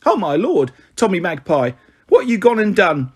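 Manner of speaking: a lightly voiced, fond, gossipy mother rattling on; teasing her son as a warm-hearted mum, quick and bright; chatty cockney mother. Mrs Chubb alarmed.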